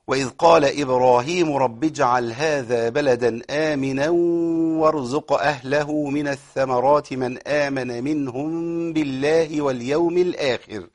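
very slow melodic tajweed chant; Quran recitation. Shown as a demonstration. Teacher chanting the verse to show the stops, slow recitation. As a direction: draw every vowel out in recitation.

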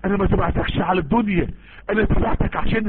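very slow, earnest classical Arabic reply; retelling the companion's words to the Prophet; the fighter's reply. Retold or imitated. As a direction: draw out ما على هذا تبعتك solemnly. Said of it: "قال له".

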